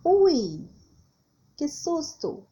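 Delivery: playful exclamation of fright; mock fright. Shown as a demonstration. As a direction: act out a little scare. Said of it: "você faz uma exclamação".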